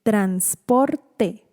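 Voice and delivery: "transporte" slowly split as trans, por, te; syllable by syllable. Shown as a demonstration. Teacher showing a difficult syllable, "transporte" split trans, por, te. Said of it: "la sílaba trans".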